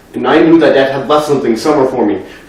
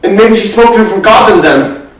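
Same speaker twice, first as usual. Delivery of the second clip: upset questioning; 4 semitones higher than usual. Acted. Questions why God allowed the killing.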